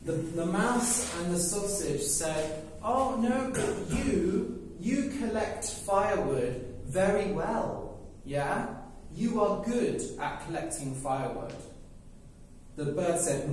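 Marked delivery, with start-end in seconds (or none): 2.8-11.5 pleading character voice. Acted. Characters in a story argue.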